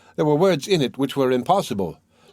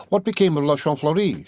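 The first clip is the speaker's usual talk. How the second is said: echoing the question absently, a little higher; mechanical repetition; 3 semitones higher than usual. Acted. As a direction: repeat it as if still lost in thought. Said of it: "repeating mechanically the words".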